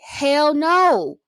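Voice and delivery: high, loud scoff at a silly question; mock outraged hell no. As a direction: fling it back high and loud, amused. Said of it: "I looked at him like".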